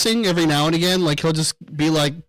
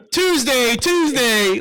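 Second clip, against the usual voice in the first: higher mock chant; imitating streamer catchphrase; 8 semitones higher, much slower than usual. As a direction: parody his signature line. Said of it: "that's his thing".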